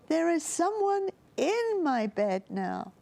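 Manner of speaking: high, excited squeaky cub voice; excited squeak. A narrator's reading. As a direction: squeak it out, thrilled to find her. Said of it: "he squeaked louder in his excitement".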